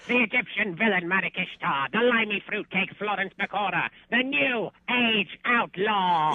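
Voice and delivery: booming ringmaster introduction. Acted. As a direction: announce it like a circus ringmaster. Announcing tag team champions.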